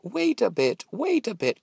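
high, loud call. A narrator's reading. Mowers call out to the passing gingerbread boy. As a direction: hail him from the field. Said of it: "they called out".

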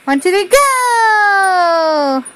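drawn-out slow countdown. Real, not acted. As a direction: stretch each count slowly.

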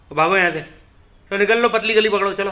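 loud shooing, a firm push to clear off; shooing shout. Real, not acted. Man loudly shoos birds from the table. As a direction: holler them off the table.

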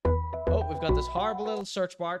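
usual speaking voice

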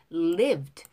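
"Lived" with a light final D; weak final D. Shown as a demonstration. Teacher models the word, "Lived" with weak final D. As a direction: say "Lived" and barely touch the D. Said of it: "D 발음 또 역시 약하게 발음하고요".

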